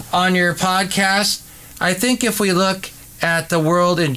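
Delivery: distant, echoey podcast voice; far from the microphone. Shown as a demonstration. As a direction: talk from across the room, off-mic. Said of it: "So far away from the microphone with lots of echo".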